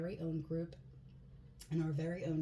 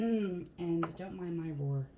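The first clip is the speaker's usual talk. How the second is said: hoarse voice; 3 dB louder than usual. Real, not acted. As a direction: speak through a hoarse throat. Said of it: "I have a little bit of a hoarse voice".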